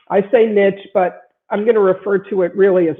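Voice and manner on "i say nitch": niche said as "nitch", ending in tch; American niche. Shown as a demonstration. Lawyer restating her own choice, niche as "nitch". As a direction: say niche so it rhymes with pitch. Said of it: "I say niche".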